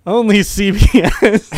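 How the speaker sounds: slow slogan read through giggles; laughed slogan. Retold or imitated. Host reveals the network's real slogan, laughing. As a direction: announce the slogan while trying not to laugh. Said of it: "slogan right now is".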